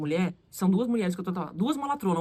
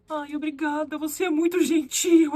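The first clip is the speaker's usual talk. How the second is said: higher, drawn-out grateful relief; relieved; 5 semitones higher, slower than usual. Retold or imitated. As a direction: gush your thanks with retold relief. (agradecimento aliviado, encenado)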